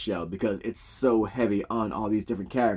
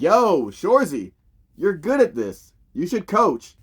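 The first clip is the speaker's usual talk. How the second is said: raised, drawn-out cheer; hyped-up kids; 7 semitones higher, 5 dB louder, slower than usual. Retold or imitated. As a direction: imitate pumped kids cheering on their coach. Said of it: "gets those kids fucking hyped".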